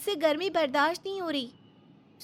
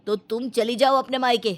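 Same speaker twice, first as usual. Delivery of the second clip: lower, reproachful husband; lower, scolding his wife for leaving his mother to work; husband's voice; 7 semitones lower than usual. Acted. Husband scolding his wife over his sick mother, lower.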